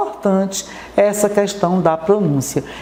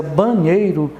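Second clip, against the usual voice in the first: "banheiro" with the middle syllable nhei strongest; "banheiro" pronounced with weight on its second syllable; stress on NHEI; slower than usual. Shown as a demonstration. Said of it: "a sílaba mais forte pronunciada é o ney".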